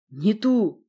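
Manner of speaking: loud, mildly grumbling monster; monster's grumble. Acted. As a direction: grumble it with force. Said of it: "проворчал монстр".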